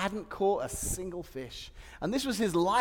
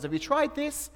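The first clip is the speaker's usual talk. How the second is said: higher, louder, exasperated and laughing; mock indignant rant; 7 semitones higher, 8 dB louder than usual. Preacher playing a fisherman annoyed by advice, indignant. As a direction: huff at the meddling outsider. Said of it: "someone goes".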